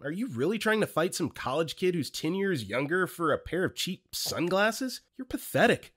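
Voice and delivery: acted-out scornful question; retold public scolding. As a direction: call him out before the whole group. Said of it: "I loudly addressed the group and asked him".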